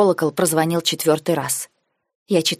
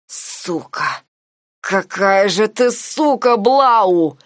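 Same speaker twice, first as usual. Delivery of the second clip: howled curse; 3 semitones higher, much slower than usual. A narrator's reading. Nike trying to rise, howling in rage. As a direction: howl the curse at her. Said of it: "взвыл он".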